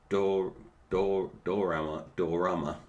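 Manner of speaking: speaking without dentures; no teeth in, slightly slurred; toothless. Real, not acted. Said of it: "I haven't got my teeth in today".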